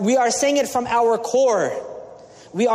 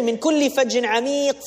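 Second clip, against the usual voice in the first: swift melodic recitation of the verse; rapid Quranic chant; 2 semitones higher, much faster than usual. Acted. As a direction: recite it in flowing Arabic.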